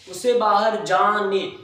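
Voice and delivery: "उसे बाहर जाने" said slowly with a lift on उसे; slow it down to show the verb; slow classroom stress on "उसे"; slow, stressed quote. Shown as a demonstration. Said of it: "जाना हमारी क्रिया".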